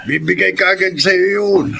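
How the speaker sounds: whispered tease. Acted. Friend whispering a tease about the girl, whispered. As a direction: lean in and whisper it.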